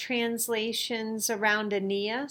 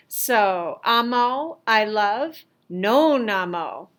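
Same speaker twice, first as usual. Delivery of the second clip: "amo" then "non amo", slow and louder; emphatic contrast; 5 dB louder, slower than usual. Shown as a demonstration. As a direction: stress the "non". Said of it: "contrast of amo and non amo".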